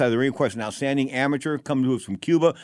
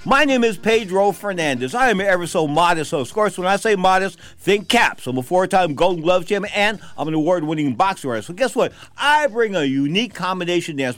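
loud boastful high-pitched bragging; hyped announcer; 6 semitones higher, 3 dB louder than usual. Acted. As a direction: brag like a ring announcer. Boastful hyped host intro.

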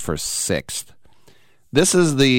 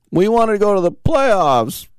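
mocking whine; 12 semitones higher, 3 dB louder than usual. Mocking Florida State.

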